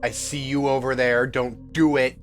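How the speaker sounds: usual speaking voice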